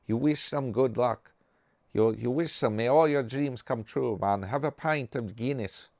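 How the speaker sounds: lilting put-on Irish accent; loosely imitated Irish well-wisher's accent; mock Irish brogue. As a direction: do a playful, rough Irish brogue. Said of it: "You got the Irish brogue".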